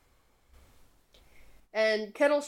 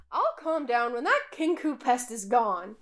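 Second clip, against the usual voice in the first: shrill voice; 2 semitones higher than usual. Acted. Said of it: "high-pitched, shrill voice".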